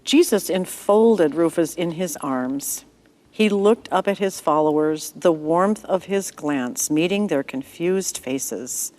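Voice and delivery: gentle storyteller reading a bible story; story narration. A narrator's reading. Narrator telling a child-friendly story to listeners. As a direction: read it like a bedtime tale for children.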